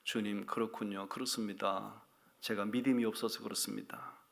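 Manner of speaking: soft, hushed, contrite; humble repentance. Retold or imitated. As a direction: confess meekly on your knees. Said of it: "무릎을 꿇고 제가 회개를 했어요".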